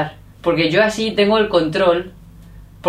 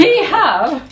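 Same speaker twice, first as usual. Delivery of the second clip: "He have" squeaked much higher, laughing; laughing imitation; 9 semitones higher, 4 dB louder than usual. Son laughing as he repeats his mother's mistake. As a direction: laugh through the quoted slip.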